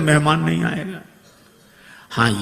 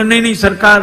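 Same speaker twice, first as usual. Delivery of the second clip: cheeky loud protest; 6 semitones higher, 8 dB louder, faster than usual. Acted.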